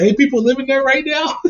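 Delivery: laughing disbelief. Retold or imitated. Incredulous question to uncle.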